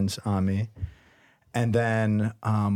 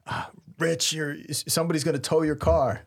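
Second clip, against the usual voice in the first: mildly frantic retelling, pitched higher; 4 semitones higher than usual. Retold or imitated. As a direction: imitate a flustered warning, stumbling at the start. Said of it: "he's frantic".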